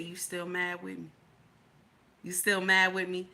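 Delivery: low, hushed imitation of husband; imitated whisper. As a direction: softly mimic him murmuring in her ear. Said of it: "he whisper in my ear".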